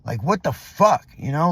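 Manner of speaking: exasperated, punching the whys; pent-up frustration, half let out; angry venting. Retold or imitated. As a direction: vent in disbelief, leaning on the curses. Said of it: "I was fucking angry".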